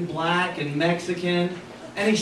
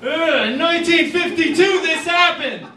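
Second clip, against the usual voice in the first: much higher, louder whiny repeat; mock kid whine; 10 semitones higher, 4 dB louder than usual. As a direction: mimic a frustrated kid parroting. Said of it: "and they".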